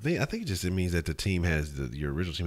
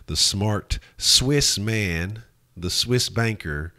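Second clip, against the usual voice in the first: loud, slow, weighty emphasis; emphatic drawn-out praise; 5 semitones higher, 8 dB louder, much slower than usual. Pretend. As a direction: lean hard on each word. Mock praise of player.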